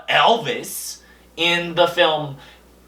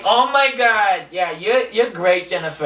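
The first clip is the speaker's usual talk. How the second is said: eager fan gushing, pitched up; 2 semitones higher than usual. Retold or imitated. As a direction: rave to her like a superfan. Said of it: "And I would be like".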